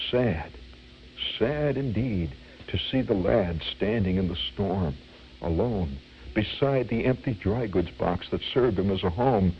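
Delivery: low, mournful stage recitation; imitated melodramatic orator; dramatic reciter. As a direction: lament it in measured verse with pauses. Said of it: "in a very dramatic voice".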